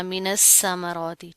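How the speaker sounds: मिनस समरौती recited slowly the faulty way; wrong recitation demo. Shown as a demonstration. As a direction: show the mistaken reading of समरौती, drawn out. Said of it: "इस तरह नहीं करना". (गलत अदायगी का नमूना, मिनस समरौती)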